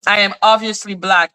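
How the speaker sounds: level, matter-of-fact statement; serious. Real, not acted. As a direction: state it firmly without the sarcasm. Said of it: "which is serious".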